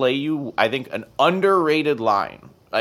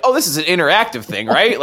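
loud, higher, fast-talking enthusiasm; mock eager heckler; 6 semitones higher, 6 dB louder than usual. Fan imagining himself annoying the audience, mock eager outburst. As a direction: blurt it out to the whole theater.

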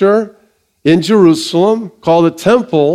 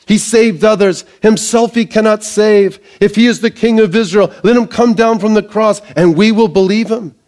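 higher-pitched, lightly jeering recital; mocking; 5 semitones higher than usual. Chief priests and scribes deriding Jesus, lightly mocking. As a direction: taunt with a raised pitch. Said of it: "the chief priests also mocking".

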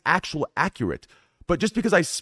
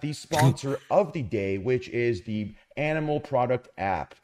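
polished announcement voice, lightly done; flight attendant; 3 dB quieter than usual. Pretend. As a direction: read it like a cabin safety briefing. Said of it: "you're talking like a flight attendant".

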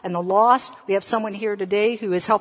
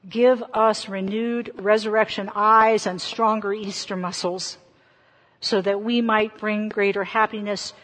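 pastoral prayer. Acted. Leads the Easter prayer.

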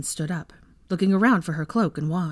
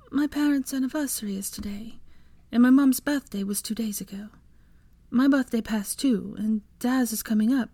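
whispered, high and breaking with grief; barely able to get the words out; grieving whisper; 6 semitones higher than usual. A narrator's reading. Hermione whispers her grief to Draco, breaking. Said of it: "sobbing into her hands".

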